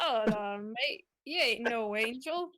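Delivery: put-on playful southern-accent accusation; mock-suspicious southern accent; weird southern accent. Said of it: "doing this weird southern accent".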